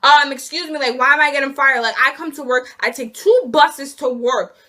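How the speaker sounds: mock-retold angry yell, slowing on but two buses. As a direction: argue back hard at the boss who fired her. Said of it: "yell on the phone".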